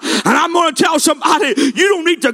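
impassioned revival preacher, driving without let-up; fervent altar-call preaching, rising in pitch; full-force preaching. Real, not acted.

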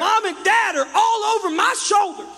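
put-on high, loud whiny teen protest; hammed-up annoyed teen shout; irritated teenager. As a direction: shout it like a fed-up kid. Teen complaining about parents.

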